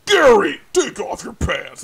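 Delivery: loud Hulk Hogan style bellow; wrestler shout. Retold or imitated. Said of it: "like Hulk Hogan".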